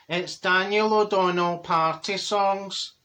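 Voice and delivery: slow, drawn-out friend impression; slow-talking Dorothy. Friend names her party CD, slow imitated drawl. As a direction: imitate her slowly, word by word. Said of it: "She says".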